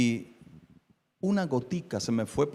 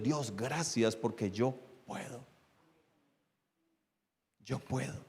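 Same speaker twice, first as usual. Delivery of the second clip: hushed gratitude; 8 dB quieter, slower than usual. Retold or imitated. Preacher recalling his thanks to God, hushed gratitude. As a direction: say it quietly to God, dropping almost away. Voices own grateful prayer to God.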